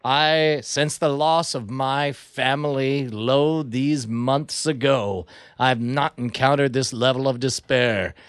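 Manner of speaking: slow, solemn lament; mock grieving speech. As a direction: mourn like a tragic hero. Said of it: "I turn to the audience and I say".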